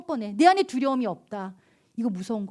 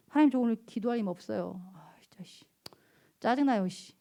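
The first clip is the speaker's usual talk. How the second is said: whispered annoyed mutter; frustrated whisper; 2 semitones lower, 6 dB quieter than usual. Retold or imitated. Honest prayer to God, fed up, whispered. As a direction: breathe it out, irritated and hushed. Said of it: "정직하세요".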